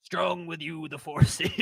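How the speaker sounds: lightly voiced Yoda sliding toward the Emperor; half-hearted Yoda on request; Yoda attempt. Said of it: "going straight into the Emperor".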